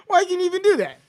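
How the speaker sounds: high, squeaky laughing voice; cracked up and incredulous; laughing disbelief. Real, not acted. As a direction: ask it while helpless with laughter. Helpless laughter at the accent.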